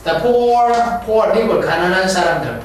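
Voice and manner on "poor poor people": poor said the proper way, like "poo-r"; teacher's model poor. Shown as a demonstration. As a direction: say poor with a clear rounded o. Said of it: "poor 하지 않고 poor라고 발음합니다".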